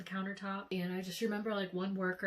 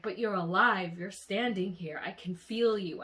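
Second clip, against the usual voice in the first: retold shock; 6 dB louder than usual. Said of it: "I was so shook".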